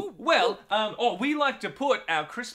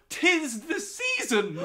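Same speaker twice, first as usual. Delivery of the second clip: put-on old-timey Dickens voice; 5 semitones higher than usual. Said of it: "why are you talking like old-timey Dickens characters".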